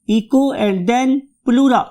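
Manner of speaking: Echo, then plura, slowly and separately; word in parts. Shown as a demonstration. Teacher teaches the word piece by piece, slow Echo, then plura. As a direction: split it into EE-koo for Echo and PLOO-ra for plura. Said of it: "बोलना सीखिए क्या मेरे साथ".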